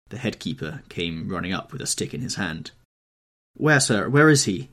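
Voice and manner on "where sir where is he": high, loud urgent shout. A narrator's reading. Headkeeper running up, shouting for the wounded man. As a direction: call out as you run up. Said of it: "he shouted".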